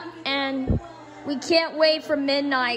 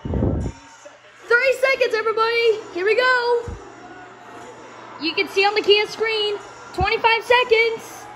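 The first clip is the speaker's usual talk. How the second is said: excited countdown; 5 semitones higher than usual. Real, not acted. Counting down to midnight.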